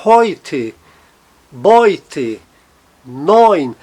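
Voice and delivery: put-on heute, Beute, neun as "HOY-te, BOY-te, noyn". Shown as a demonstration. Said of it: "som de oi".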